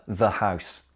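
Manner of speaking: "the" said "thuh" before "house"; weak schwa in "the" before "house"; "thuh" before consonant. Shown as a demonstration. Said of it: "notice the difference in pronunciation".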